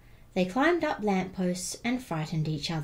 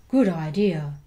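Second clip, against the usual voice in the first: louder, hearty big skeleton voice; 2 semitones lower, 6 dB louder than usual. Acted. Big skeleton agreeing with the little one, loud and hearty. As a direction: boom it out agreeably. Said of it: "the big skeleton said".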